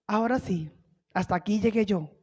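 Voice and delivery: low, hushed voice of giving up; quiet, sunken mock defeat; acted resignation. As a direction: say it softly, as if it is all over. Voicing Saul giving up in fear.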